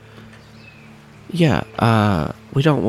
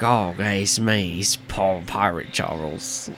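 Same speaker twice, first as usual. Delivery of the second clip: put-on pirate accent; 2 semitones lower, 4 dB quieter, slower than usual. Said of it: "He puts on a pirate accent".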